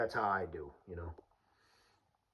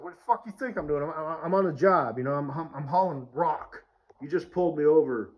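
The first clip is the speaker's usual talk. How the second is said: mildly heated, raised-pitch comeback; irritated retort; 3 semitones higher, 5 dB louder than usual. Retold or imitated. Driver on the job hauling rock, irritated retort. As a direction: push back at the officer, a touch indignant.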